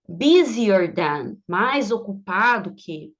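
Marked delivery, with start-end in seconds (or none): 0.1-1.4 slow teaching demo. Shown as a demonstration. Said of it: "teacher models the word slowly".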